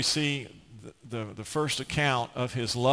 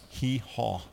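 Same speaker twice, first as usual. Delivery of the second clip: soft, understated donkey call; real low voice; 3 semitones lower, 7 dB quieter than usual. Retold or imitated. Man coaxing a stubborn donkey, in a low voice. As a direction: say the bray low and quietly. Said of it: "in a real low voice".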